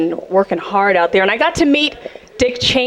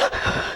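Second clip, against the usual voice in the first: dramatic gasp; 11 dB quieter than usual. Retold or imitated. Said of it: "Lips quivering, they're like".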